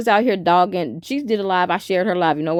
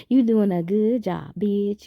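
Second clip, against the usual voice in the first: affectionate praise; slower than usual. Shown as a demonstration. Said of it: "you know when you like".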